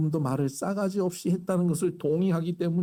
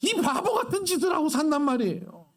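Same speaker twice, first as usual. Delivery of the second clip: laughing; 10 semitones higher than usual. Real, not acted. Laughs at the foolishness.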